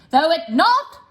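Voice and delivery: very slow, stretched words. Shown as a demonstration. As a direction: drag every word out. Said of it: "I'm going to slow".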